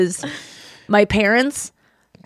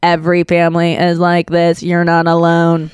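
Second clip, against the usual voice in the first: reassuring; 5 semitones lower than usual. Acted. Answers imagined worried mom, reassuring.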